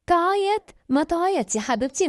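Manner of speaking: high, incredulous echo, then dropping; scornful echo. Acted. Eldest girl brushes off her little sister's worry, scornful.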